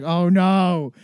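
sudden panicked oh no, then a slow deflated it's over; the party's ruined, give up; mock dismay. Clubgoer seeing the hot people arrive, mock despair. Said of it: "you're like".

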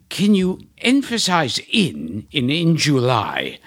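plain, polite request; near-plain commercial guy asking; ad men asking. Retold or imitated. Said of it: "and they say".

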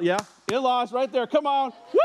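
high, loud hype for the crowd; cheering. Real, not acted. Pastor hyping up his in-laws in the crowd, high and loud.

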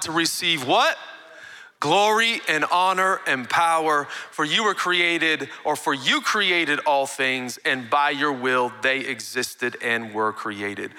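slow, weighty scripture read. Acted. Preacher reading Revelation to the church, slow and solemn. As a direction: read it like holy words.

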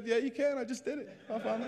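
high-pitched cocky insistence; high, comic retold protest; defiant comeback. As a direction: act out arguing back, voice pitched high. Acts out his defiant comeback.

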